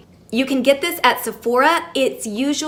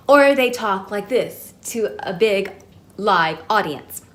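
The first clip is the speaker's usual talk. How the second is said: projecting to a big audience; slower than usual. Shown as a demonstration.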